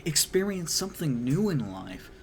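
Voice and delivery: a hint of a dad pitching a trip; lightly voiced dad. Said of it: "her father is just like".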